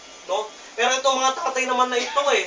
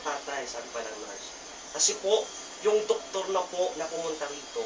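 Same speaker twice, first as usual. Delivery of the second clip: gentle nurse; 4 semitones lower, 4 dB quieter than usual. Retold or imitated. Nurse gently tells the grieving story.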